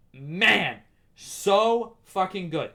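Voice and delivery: so fucking good, slow and lingering; stretched, emphatic praise; drawn-out gush. Real, not acted. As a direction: savor every word. Savoring praise of the show.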